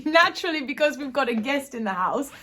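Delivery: getting emotional and laughing it off. Real, not acted. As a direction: voice lifted high with real emotion, a little laugh. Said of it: "if you can tell from my tone of voice".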